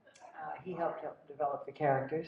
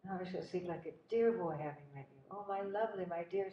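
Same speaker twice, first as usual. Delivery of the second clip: Laurence Olivier; 3 semitones higher, 4 dB quieter than usual. Retold or imitated. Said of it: "he was so warm and effusive".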